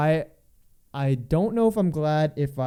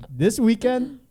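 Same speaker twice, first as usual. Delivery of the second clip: slow announcer; 8 semitones higher, 6 dB louder, slower than usual. Shown as a demonstration. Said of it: "Why do I sound like a reporter".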